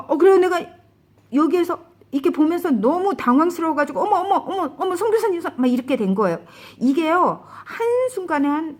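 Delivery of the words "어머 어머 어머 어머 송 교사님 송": high, flustered repeated exclamations with a laugh; retold panic at a friend's changing face, high and laughing; shocked gasps. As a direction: blurt it out in startled disbelief. Retelling shocked reaction in dream.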